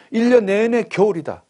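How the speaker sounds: high, loud mock-dramatic announcement; dramatic exclaim. Preacher painting endless winter for the children, high dramatic exclaim. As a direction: proclaim an endless winter with relish.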